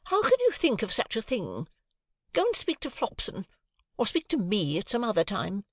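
shrill, indignant lady of the house; high, offended and superior; haughty high lady. A narrator's reading. Missus Pocket indignant.

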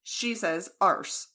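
arse with an open ah, said slowly; mom's arse. Retold or imitated. American quoting her mom's British-sounding arse, slow open ah. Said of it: "instead of saying ass".

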